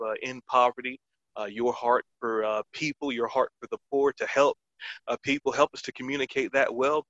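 earnest spoken prayer, steady and devout. Acted. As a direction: lead the listeners in a heartfelt prayer. Opening prayer of the podcast.

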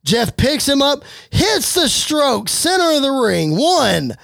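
lively wrestling commentary; play-by-play. Acted. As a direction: call the match as it happens. Live play-by-play of wrestling match.

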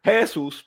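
"Jesús" read with the stress moved off the U, onto the first syllable; deliberately literal JE-sus for "Jesús"; misread without accent. Shown as a demonstration. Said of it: "porque no tiene acento en la U".

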